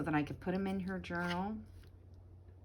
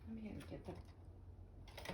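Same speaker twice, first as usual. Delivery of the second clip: straining at a tight lid; opening a stuck jar; 14 dB quieter than usual. Real, not acted. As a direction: talk while wrenching the lid. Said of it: "I can't get the lid off".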